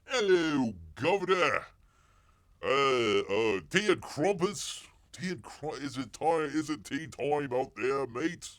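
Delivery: hammed-up British, pitched high; mock Cockney accent. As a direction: overdo a cheery Cockney caricature. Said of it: "best Cockney English".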